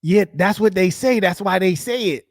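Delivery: lightly voiced imitation of the guy in the clip; imitating bro. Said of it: "Bro said".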